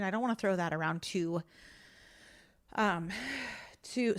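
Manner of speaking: breathless, winded talking; out of breath. Real, not acted. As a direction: speak short of air after exercise. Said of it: "I'm out of breath".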